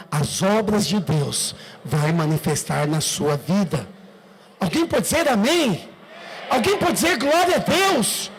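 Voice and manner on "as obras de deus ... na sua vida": solemn declaration. Shown as a demonstration. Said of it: "Fala pra pessoa".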